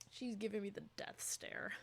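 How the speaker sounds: hushed whispered aside; whispering. Real, not acted. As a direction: whisper it to the viewers. Aside about cat.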